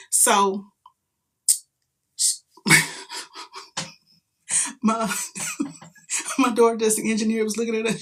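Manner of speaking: talking through real laughter; breaking up mid-sentence; laughing. Real, not acted. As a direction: giggle your way through the words.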